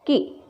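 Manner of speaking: "कि" with a short, light i. Shown as a demonstration. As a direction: cut the vowel of "कि" short, no weight on it. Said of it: "ऐसे उच्चारण होना चाहिए". ("कि" में छोटी इ, बिना ज़ोर)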